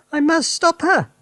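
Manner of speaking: high, loud wail; wife wailing as her mother shrinks. Acted. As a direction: plead in despair. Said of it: "Missus Cranky wailed".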